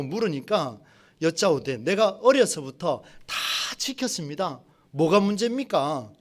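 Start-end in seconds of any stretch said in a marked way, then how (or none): 1.8-6.1 lightly voiced curt, annoyed reply; a hint of a sulky rich official talking back; mildly irritated. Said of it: "퉁명스럽게 또 짜증스러운 말투로". (살짝 퉁명스럽고 짜증 섞인 말투)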